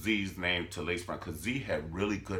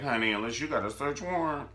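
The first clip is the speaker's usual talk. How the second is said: sassy Candace. Retold or imitated. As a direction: draw out the foyer line with attitude. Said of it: "And Candace like".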